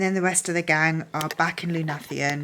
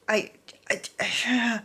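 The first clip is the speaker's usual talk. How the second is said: speechless whisper; 5 semitones higher than usual. Real, not acted. Overwhelmed, lost for words.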